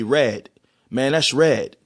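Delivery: RED with an open short "eh"; New York pronunciation. Shown as a demonstration. Showing New York speech, RED with short "eh". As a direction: say RED with a plain "eh" vowel. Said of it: "somebody from New York might say".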